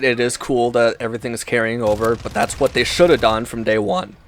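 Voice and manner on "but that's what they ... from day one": voice crack. Real, not acted. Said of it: "I don't know what the fuck that voice crack was".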